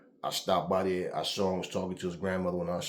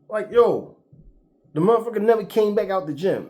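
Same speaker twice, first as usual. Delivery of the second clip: high, loud punchline about him never coming back; exasperated loud telling; emphatic exclaim; 11 semitones higher, 9 dB louder than usual. Real, not acted. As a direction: hammer home that he never came out.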